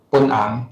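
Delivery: 本行 spelled out slowly in its Hakka reading; 本行 drawn out slowly in the Hakka reading. Shown as a demonstration. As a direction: sound out 本行 slowly, word by word. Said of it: "客语讲本行".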